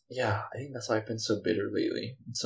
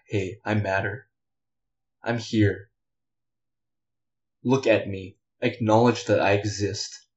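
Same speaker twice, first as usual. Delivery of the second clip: louder, firm and insistent; real frustration, pushed out louder; angry demand; 5 dB louder than usual. Real, not acted. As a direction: demand to be acknowledged. Venting, demanding to be acknowledged.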